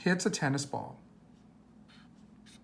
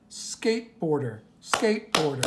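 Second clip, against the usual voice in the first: "Skateboarder" split into its separate syllables. Shown as a demonstration. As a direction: sound out "Skateboarder" beat by beat for counting. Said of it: "many syllables".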